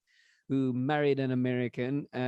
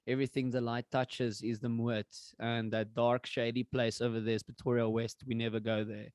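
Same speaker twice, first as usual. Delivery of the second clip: Mufasa impression; 3 semitones lower, 4 dB quieter than usual. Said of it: "conversation that Mufasa and Simba".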